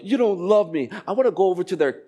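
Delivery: a hint of a sulky kid; child's complaint. Child to parent, mock complaint. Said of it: "They always talk like that".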